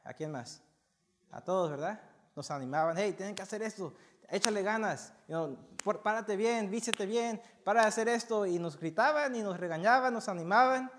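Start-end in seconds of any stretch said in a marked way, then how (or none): 3.0-8.5 imitating a scolding dad. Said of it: "mi papá me gritaba, me animaba, me regañaba".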